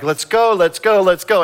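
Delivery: put-on high, loud impatient kid pleading; whiny kid. Child begging parents to leave church, whining loudly. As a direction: tug at mom, begging to leave.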